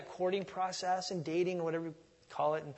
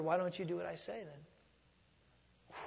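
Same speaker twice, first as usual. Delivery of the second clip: soft and slow, near a whisper; gentle whisper; 5 dB quieter, much slower than usual. Retold or imitated. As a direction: quietly ask it back, very slowly. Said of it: "I've heard that whisper".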